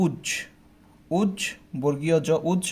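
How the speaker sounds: উজ said alone, clipped with a stop; teacher sounding out উজ; sounded out syllable. Shown as a demonstration. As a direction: isolate উজ with a hard stop. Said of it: "উচ্চারণটা কিভাবে করি?".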